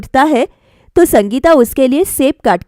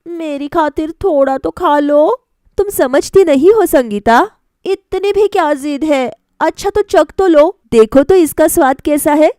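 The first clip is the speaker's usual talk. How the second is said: higher, playful coaxing; coaxing young wife; 4 semitones higher than usual. Acted. Wife coaxes husband to taste the apple, higher teasing voice. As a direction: sweet-talk him into a taste.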